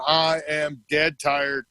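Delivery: slow, weighty "I am dead tired"; drawn-out stress on each word of "I am dead tired"; emphatic. Retold or imitated. Retold exhausted plea for a break.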